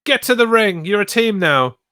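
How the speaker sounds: high, bad Australian accent; badly faked Australian accent. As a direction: bark the order in a hammed-up Aussie accent. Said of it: "uh, my Australian accent".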